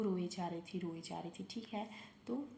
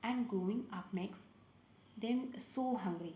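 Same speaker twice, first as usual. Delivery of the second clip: slow, deliberate storybook reading; reading to children; much slower than usual. Acted. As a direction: read it slowly to the kids, word by word. Reads story line slowly.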